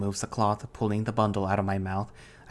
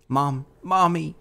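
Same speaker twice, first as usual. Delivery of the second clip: high, loud, drawn-out cry for mother; desperate slow wail, pitched up; instinctual cry; 7 semitones higher, 6 dB louder, slower than usual. A narrator's reading. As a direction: call for mommy like a child in a nightmare. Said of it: "the most instinctual cry comes to me".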